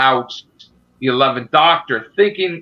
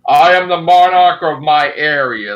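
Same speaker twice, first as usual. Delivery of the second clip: dark lord; 5 dB louder than usual. Pretend. Mock dark lord banter.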